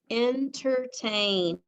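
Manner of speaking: said slowly for spelling; slow dictation. Shown as a demonstration. Teacher dictating entertain slowly to students. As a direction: stretch the word entertain out slowly. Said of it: "Next word is".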